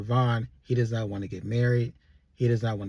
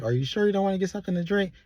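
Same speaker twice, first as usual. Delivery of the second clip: higher, fast, wheedling ask; high coaxing plea; 8 semitones higher, faster than usual. Retold or imitated. Tipsy Sabrina urging Andy to drink, high and fast. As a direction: coax him sweetly and quickly.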